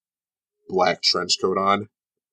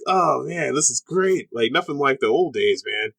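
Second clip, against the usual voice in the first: higher-pitched acted excitement; delighted fan; 6 semitones higher than usual. Game master voices a fan of old-style wrestling, delighted. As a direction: play an onlooker loving the spectacle.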